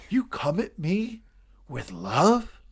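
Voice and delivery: slow, contemptuous question; disdainful. Acted. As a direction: sneer it slowly. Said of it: "The disdain in his voice".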